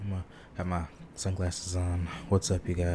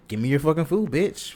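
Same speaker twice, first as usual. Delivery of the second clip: loud, high mock goose threat; angry goose voice; 8 semitones higher, 6 dB louder than usual. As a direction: play a goose demanding food. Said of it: "Some geese might".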